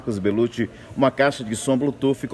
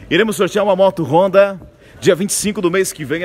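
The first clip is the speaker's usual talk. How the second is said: raised, punchy prize reveal; excited announcement; 5 semitones higher, 5 dB louder than usual. Acted. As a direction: hype up the big raffle prize. Announcing the motorbike raffle.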